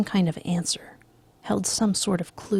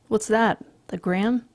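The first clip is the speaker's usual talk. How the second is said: keen interest; 4 semitones higher, 4 dB louder than usual. Acted. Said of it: "not apathetically".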